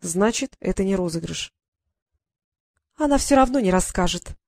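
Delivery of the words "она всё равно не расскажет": higher squeaking voice; squeaky. Acted. Little sister squeaks objection, higher squeak. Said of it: "пропищала вдруг Дейла".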